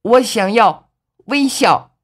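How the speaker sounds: slow, high, drawn-out shout; stretched-out high holler. A narrator's reading. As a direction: call it out high and long through cupped hands. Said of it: "放到嘴边喊道".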